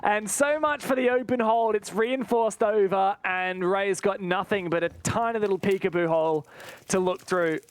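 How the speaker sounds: brisk esports call of the round; live play-by-play. Acted. Caster calling the round live to viewers, brisk play-by-play. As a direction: keep the action rolling for viewers.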